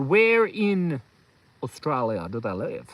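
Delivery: tentative Canadian accent, low and slow; slow, doubtful stab at Canadian; attempted Canadian accent. Shown as a demonstration. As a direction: try out a Canadian accent, unsure of it. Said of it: "Is that a Canadian accent?".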